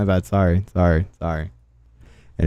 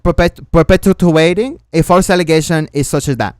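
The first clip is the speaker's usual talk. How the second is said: put-on Latina accent. Streamer reading out posts in a put-on Latina accent. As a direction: read it in a mock Latina accent. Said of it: "read every single thing in the Latina accent".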